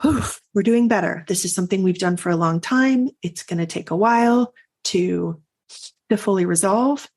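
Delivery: gentle, reassuring self-encouragement; loving self-talk. Retold or imitated. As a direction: comfort yourself like a kind friend. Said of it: "lovingly saying".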